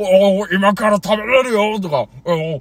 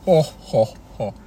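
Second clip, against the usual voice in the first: put-on old man chuckle; 6 semitones lower than usual. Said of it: "安西先生。".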